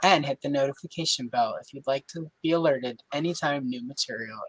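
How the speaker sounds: smooth, polished announcer read; newscaster voice. Shown as a demonstration. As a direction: deliver it like a TV news anchor. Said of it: "if I do it that way in that voice".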